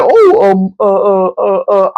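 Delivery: light imitation of a flustered stammer; hammed-up stammer with a whimper; mock nervous stammer. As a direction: stumble over nothing like a shy guy.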